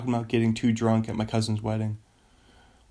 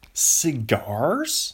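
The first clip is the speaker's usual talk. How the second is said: "Cigars?" questioned louder, with rising tune; incredulous, drawn-out "Cigars?"; mock disbelief; 3 semitones higher, 4 dB louder than usual. Exaggerated second take, mocking.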